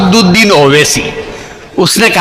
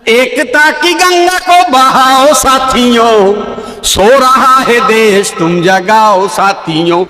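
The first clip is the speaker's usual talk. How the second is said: slow declaimed verse; poem recital; 7 semitones higher, slower than usual. Acted. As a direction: recite each line slowly, like a stage poet.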